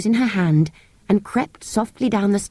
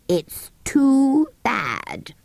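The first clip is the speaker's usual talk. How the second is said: cross sand fairy; 7 semitones higher, much slower than usual. A narrator's reading. Psammead cross at being dug out.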